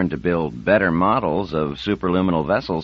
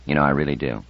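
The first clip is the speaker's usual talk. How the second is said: relieved; 4 semitones lower than usual. A narrator's reading. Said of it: "smiled with honest relief and said".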